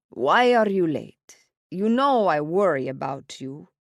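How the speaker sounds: a father scolding out of worry; worried father. A narrator's reading.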